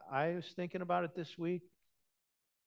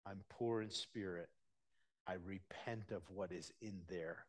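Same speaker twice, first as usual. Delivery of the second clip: softer, low private prayer; humble confession; 5 semitones lower, 6 dB quieter than usual. Acted. Believer confessing poverty of spirit to God, softly. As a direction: murmur it like a quiet repentance. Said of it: "And you find".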